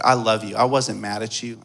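low, gentle fatherly voice; tender reassurance. Retold or imitated. Father reassuring his son.

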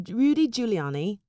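put-on British accent on a name. Host starting her British bit for co-host, British accent. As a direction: say it as a would-be Brit. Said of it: "do a, a British accent".

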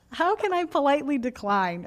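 last gasp of a put-on southern twang; hammed-up southern accent. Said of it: "I'm giving up on that".

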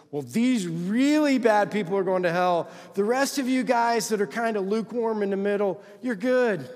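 lifted, sing-out mock assurance; mock church reassurance. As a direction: imitate a church letting people off. Voices churches letting lukewarm off.

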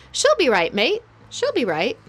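breezy Australian accent, mock-casual; Aussie "she'll be right". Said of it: "in the words of someone from New Zealand or Australia".

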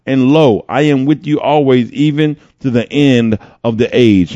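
unhurried, projected reading from scripture. Acted. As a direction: proclaim the verse with deliberate emphasis. Reads scripture aloud.

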